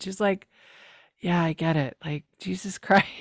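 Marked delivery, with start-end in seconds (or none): 1.2-3.1 softly mimicked exasperation; so over it. Host voices Cam's face at the gross talk, over it. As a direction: imitate someone wearily done with it. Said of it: "she's so over it".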